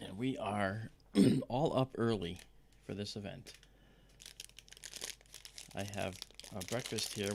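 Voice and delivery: talking while crunching food; crunching chips. Real, not acted. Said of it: "sorry about the crunching".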